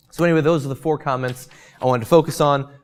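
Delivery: slightly strained, tiring voice; a voice starting to give out; losing voice. Real, not acted. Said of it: "Losing my voice here".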